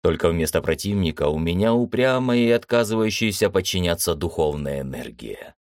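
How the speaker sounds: ordinary delivery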